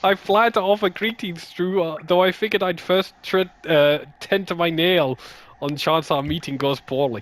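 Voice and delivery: a hint of the put-on adventurer, slipping back; fading character voice. Gamer reading game dialogue in fading accent. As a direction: keep the knight voice lightly, letting it fade. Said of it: "I've lost the accent entirely".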